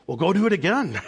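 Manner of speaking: high, loud, breaking into laughter; retold cheer, tipping over into a laugh; laughing reply. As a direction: egg the kid on with a laugh. Retells own amused reply to son.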